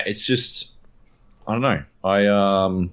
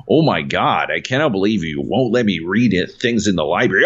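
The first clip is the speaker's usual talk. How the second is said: mock American accent slipping; Benedict Cumberbatch. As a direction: imitate an actor losing his American accent. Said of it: "he would lose his accent".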